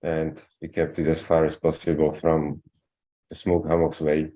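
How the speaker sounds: muffled, like through cloth. Real, not acted. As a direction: voice muffled on the mic. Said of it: "You're a little muffled".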